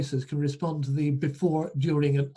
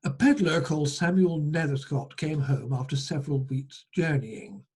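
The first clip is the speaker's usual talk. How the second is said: measured storyteller reading aloud; folk tale narration. Acted. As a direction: read the tale out to listeners.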